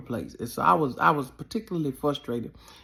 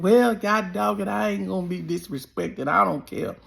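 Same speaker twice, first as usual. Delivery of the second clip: retold defiance; 5 semitones higher than usual. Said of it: "I said".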